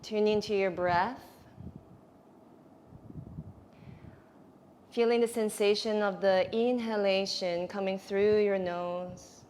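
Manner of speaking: unhurried breath-awareness guidance; guided meditation. Real, not acted. Yoga teacher guiding students to notice the breath, meditative. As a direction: lead them into their breathing, with long pauses.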